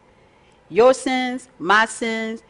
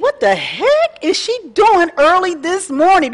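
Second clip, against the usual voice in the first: higher, baffled family member; imitating puzzled family; 9 semitones higher, 4 dB louder than usual. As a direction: play the confused relative hearing noise at dawn. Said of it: "my family will think".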